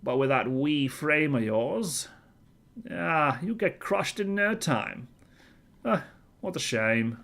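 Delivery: lightly voiced mechanic character; voicing Mel. Gamer reading robot mechanic Mel's lines aloud, lightly voiced. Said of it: "should I be going more Scottish with this?".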